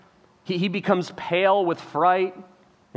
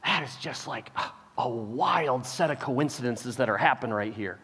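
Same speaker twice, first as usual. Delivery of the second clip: hushed, breathy wonder; a quiet, faked wow; mock amazement; 7 semitones lower, 7 dB quieter than usual. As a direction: muse it to yourself in awe. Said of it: "think to yourself".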